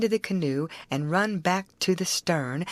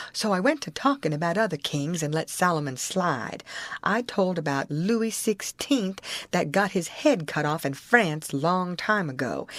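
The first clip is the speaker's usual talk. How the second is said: usual speaking voice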